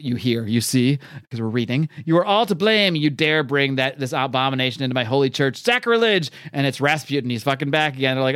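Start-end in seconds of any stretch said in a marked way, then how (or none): 2.1-6.3 imitated indignant proclamation, rising on the last word; a touch of mock outrage; lightly voiced outraged villain. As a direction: declaim like an affronted holy man. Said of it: "you hear a voice from off the panel".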